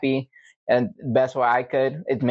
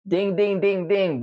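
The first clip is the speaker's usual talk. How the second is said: mock game-show win, pitched up on the dings; sarcastic congratulations; 4 semitones higher, slower than usual. Answering coworkers who called him stupid, sarcastic. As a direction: congratulate them with heavy sarcasm.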